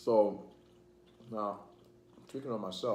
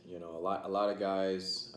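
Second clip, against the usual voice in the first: talking while chewing; words round a bite of food; mouth full; 4 dB louder than usual. Real, not acted. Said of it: "I'm sorry if I'm talking my mouth full".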